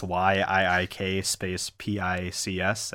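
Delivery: spelled out slowly; slow it down for listeners; slow and deliberate. Real, not acted. Spelling out show name.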